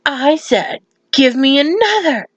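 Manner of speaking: mock-stubborn customer ordering; insistent demand. Pinky insists to the bartender.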